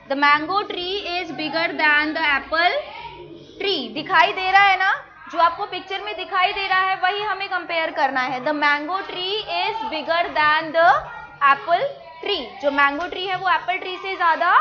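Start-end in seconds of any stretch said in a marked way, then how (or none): 0.1-3.9 slow model sentence. Shown as a demonstration. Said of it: "teacher repeats model sentence slowly". 8.4-12.4 slow model sentence. Shown as a demonstration. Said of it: "teacher models sentence again".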